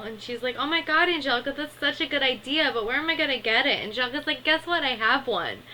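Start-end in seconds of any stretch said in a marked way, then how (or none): 0.6-3.8 high, loud, gushing and quick at the end; excited little girl. Retold or imitated. Lil thrilled by Angelica's helmet offer, high excited gush. 4.4-5.6 high, loud sing-song tease; teasing brat reveal. Retold or imitated. Angelica smugly revealing the helmet to Lil, teasing.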